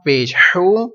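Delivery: each syllable spelled out slowly for repeating; slow spelling drill. Shown as a demonstration. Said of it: "repeat کرتے ہیں". (آہستہ آہستہ ہجے کر کے پڑھانا)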